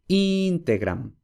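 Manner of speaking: integram said slowly with the stress on the first syllable, IN-te-gram; slow demo. Shown as a demonstration. Teacher showing integram stressed on the first syllable, slowly. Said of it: "la sílaba es breve".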